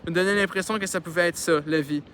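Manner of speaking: reading a novel aloud; story narration. A narrator's reading. Reader telling a childhood story to listeners, narrating. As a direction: narrate it clearly, with lively phrasing.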